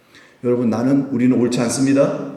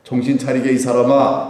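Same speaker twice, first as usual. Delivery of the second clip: firm, even-pitched admonishing; genteel reproof; 3 dB louder than usual. Retold or imitated. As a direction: chide with restraint and weight. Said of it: "좀 책망하신 거예요". (점잖지만 단호하게 타이르는 말투)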